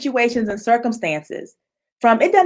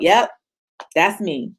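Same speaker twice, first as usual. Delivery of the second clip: owning it; 5 semitones lower than usual. Shown as a demonstration. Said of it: "just call yourself out".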